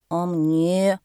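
loud, drawn-out call; calling from below. A narrator's reading. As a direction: call up to them, mildly shouted. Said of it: "закричал снизу слонёнок". (протяжно, громко)

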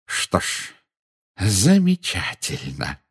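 savouring, drawn-out satisfaction; jubilant. A narrator's reading. Minister relishes the recorded confession, jubilant. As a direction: stretch the praise with contained glee. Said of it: "В голосе Фаджа звучало ликование".

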